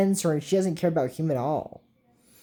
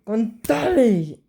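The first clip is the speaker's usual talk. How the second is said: drawn-out, higher spell word; slow spell incantation; 5 semitones higher, much slower than usual. Retold or imitated. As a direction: intone the spell slowly like a villain. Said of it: "And then Ash goes".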